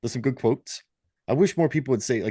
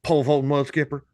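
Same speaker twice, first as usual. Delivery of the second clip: put-on Southern exclamation; Southern accent; 2 semitones higher than usual. Shown as a demonstration. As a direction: try the phrase with a Southern accent. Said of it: "put the southern accent on it".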